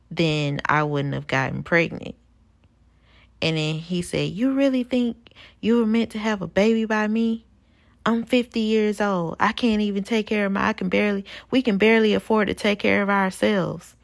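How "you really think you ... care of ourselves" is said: mocking the boyfriend. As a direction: imitate him scoffing, lightly exaggerated. Boyfriend quoted during phone argument.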